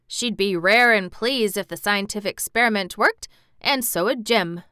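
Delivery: put-on a cheerful Yorkshire boy, broad and friendly; Yorkshire dialect, pleased and admiring; Yorkshire lad. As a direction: speak it like a Yorkshire farm lad. Dickon's Yorkshire voice.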